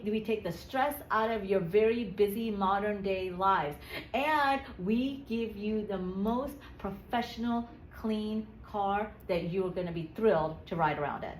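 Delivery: slow, deliberate selling delivery; sample sales pitch. Shown as a demonstration. Coach modelling a car-cleaning pitch, slow and deliberate. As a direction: spell out each benefit unhurriedly.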